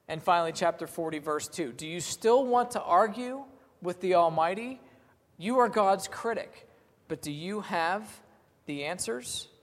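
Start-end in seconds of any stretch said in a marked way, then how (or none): 1.7-9.5 higher and slow, a lightly stern challenge; stern voice of the Lord. Acted. God rebuking Job, raised and slow. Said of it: "The Lord talking to Job".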